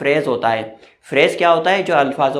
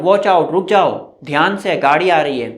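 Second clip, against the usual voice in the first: warning call. Shown as a demonstration. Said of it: "हम बोलते हैं ना".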